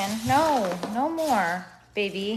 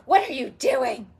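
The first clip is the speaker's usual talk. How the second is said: retold scolding; 2 semitones higher, 4 dB louder than usual. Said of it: "I've been telling her".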